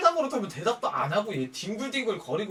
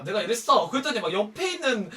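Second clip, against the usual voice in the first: ordinary talk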